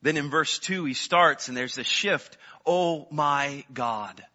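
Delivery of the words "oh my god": slow, hushed wonder at God; awed prayer. Acted. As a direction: breathe it out in awe. Psalmist's prayer turning to awe.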